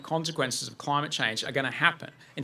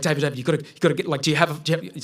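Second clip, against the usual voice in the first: urgent fear; 2 semitones higher, 3 dB louder, much faster than usual. Retold or imitated. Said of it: "spike of pure fear in my voice".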